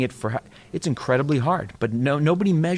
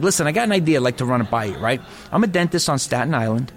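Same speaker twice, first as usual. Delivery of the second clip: put-on New York accent. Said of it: "it's a cliche accent".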